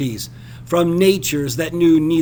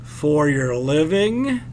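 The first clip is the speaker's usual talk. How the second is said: sneering; 3 semitones lower, slower than usual. Acted. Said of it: "His lip curled in a swift sneer".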